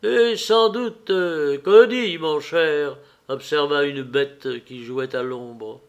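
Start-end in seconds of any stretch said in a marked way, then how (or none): 0.0-3.0 high, loud and slow, a strange creature; a beast in the shadows teasing the narrator, high and slow; odd beast voice. Acted. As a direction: drawl it out like an odd little beast lurking in the shadows.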